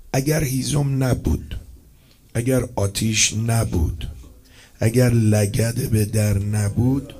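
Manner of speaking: اگر هیزم نبود drawn out, each clause slow and weighty; slow building list. Real, not acted. Preacher to mourners, slow deliberate list. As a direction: lay out each «اگر» slowly, one by one.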